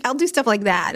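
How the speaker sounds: normal talking voice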